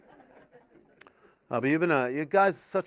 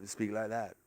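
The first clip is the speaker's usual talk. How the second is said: a much lower, softer odd voice; silly new voice; 8 semitones lower, 10 dB quieter than usual. Shown as a demonstration. Waking up and trying a strange new voice, lower and softer. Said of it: "you just go".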